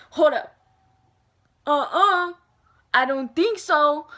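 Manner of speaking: flatly refuse, playing it up; sassy refusal. Retold refusal of an IV.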